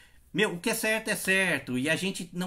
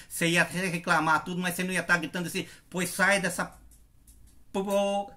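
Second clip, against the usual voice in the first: retold argument. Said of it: "E briguei mesmo".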